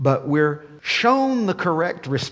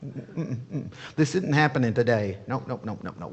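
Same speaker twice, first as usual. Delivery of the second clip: high, loud outraged yelling; hammed-up indignant leader yelling stop it; 3 semitones higher, 5 dB louder than usual. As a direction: shout him down like a furious official. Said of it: "I can imagine what he says".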